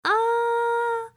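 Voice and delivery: high, loud mock-horrified editor. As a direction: play an appalled editor stammering. Voicing an imagined editor objecting.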